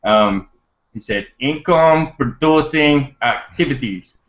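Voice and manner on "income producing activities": slow, higher-pitched attempt at his accent; lightly imitated accent, words drawn out; badly faked accent, slow and deliberate; Alex Zubarev's accent. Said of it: "I'm gonna try to do it in his accent".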